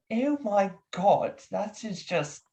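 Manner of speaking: high, drawn-out London doctor; hammed-up fascination in a character voice; Doctor Cromwell. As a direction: marvel slowly, as if learning something remarkable. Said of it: "His name is Doctor Cromwell".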